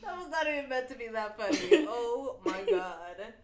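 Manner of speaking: after laughing hard. Real, not acted. Winding down from laughter.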